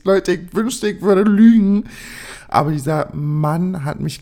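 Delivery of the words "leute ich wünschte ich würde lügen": laughing. Real, not acted. Laughs admitting wild night.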